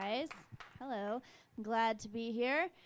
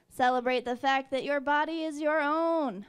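louder, emphatic cheer; mock celebrating mom; 3 semitones higher, 6 dB louder than usual. Mom to her safely returned kid, mock celebratory. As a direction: push it out loud as an over-celebrating mom. Acts out mother celebrating safety.

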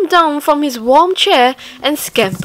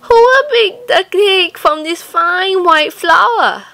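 higher, louder hen voice; high hen calling question; hen asking; 8 semitones higher, 5 dB louder than usual. Acted. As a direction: call out to the others as the hen. Hen asks the animals.

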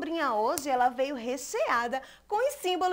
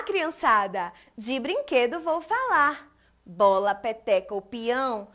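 poem recitation. Acted. Recites her poem to children.

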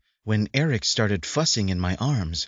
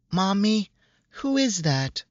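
put-on high, curious small girl's voice; little girl; 12 semitones higher than usual. Child Erica voiced.

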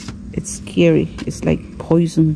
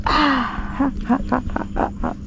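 1 breathy laugh; 7 semitones higher, 5 dB quieter than usual. Real, not acted. Laughing at the monkeys.

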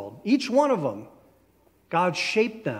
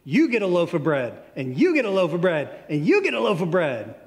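Oprah giveaway; 3 dB louder than usual. Retold or imitated. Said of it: "It's Oprah time".

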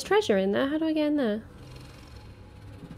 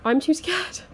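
pitched-up nervous plea "I'm too scared"; 6 semitones higher, 7 dB louder than usual. Real, not acted. Player dreading the next room, anxious whine. Frightened player repeats phrase.

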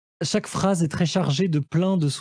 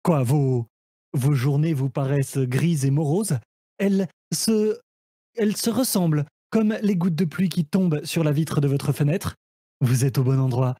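infomercial host; 3 semitones lower than usual. Acted. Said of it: "je serai à la manière d'un téléachat".

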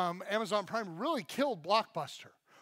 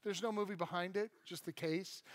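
mock letdown, trailing softer; dashed; 4 dB quieter than usual. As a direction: act out a mild crushed disappointment. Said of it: "and you're dashed".

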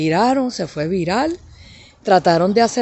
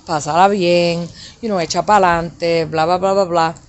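softer and lower, tender motherly words; gentle message; 4 semitones lower, 3 dB quieter than usual. Retold or imitated. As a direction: soothe an estranged daughter softly. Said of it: "le tiro un mensaje bonito". (mensaje tierno, más bajo y suave, de madre a hija)

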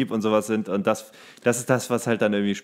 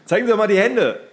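higher, louder mock official order; mock command; 9 semitones higher, 5 dB louder, faster than usual. A host jokingly barks at his co-host like an officer, higher and louder. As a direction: play a stern inspector for a laugh.

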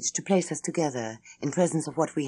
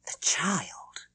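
scared; 3 semitones higher than usual. A narrator's reading. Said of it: "She looked immensely scared".

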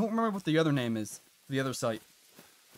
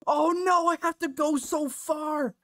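laughing despair; 11 semitones higher, slower than usual. Real, not acted. Gamer laughing at the long run back, mock despair. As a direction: moan it through laughter.

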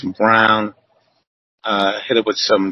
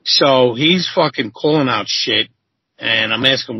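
normal talking voice

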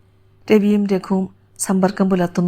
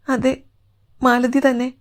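a touch of a choked throat; understated emotional reply; voice catching; 4 semitones higher than usual. Acted. Woman confirms it is her over radio, voice faintly catching. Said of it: "അവളുടെ തൊണ്ട ഇടർന്നുണ്ടായിരുന്നു".

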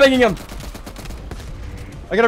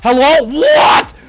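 raging gamer; 4 dB louder, slower than usual. Real, not acted. Gamer yelling at console.

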